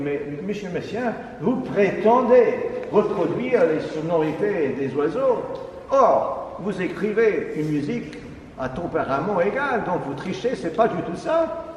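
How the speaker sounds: voix haute et véhémente, en imitant un jeune provocateur; accuse-le de tricher, avec aplomb; ton accusateur imité. Retold or imitated. Jeune compositeur qui attaque Messiaen. (imitation véhémente du jeune compositeur)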